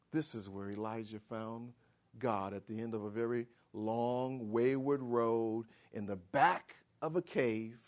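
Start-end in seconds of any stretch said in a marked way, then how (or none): none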